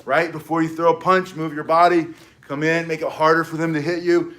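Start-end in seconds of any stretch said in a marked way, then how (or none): 1.3-2.1 "body" hit a bit louder; emphasis on body. Shown as a demonstration. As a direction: drive home "body". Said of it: "coach drilling".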